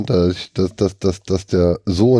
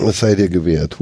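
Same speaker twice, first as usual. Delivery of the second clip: too loud, headphones on; 3 semitones lower than usual. Real, not acted. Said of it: "Huch, jetzt bin ich zu laut".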